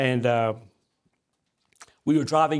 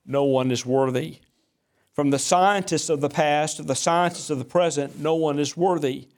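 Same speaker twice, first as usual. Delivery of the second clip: preaching cadence. Acted. Builds a rhetorical quote.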